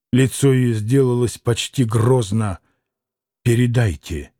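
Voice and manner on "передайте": frenzied. A narrator's reading. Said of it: "иступлённо, вся сотрясаясь, приказывала она".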